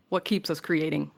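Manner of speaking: ordinary talk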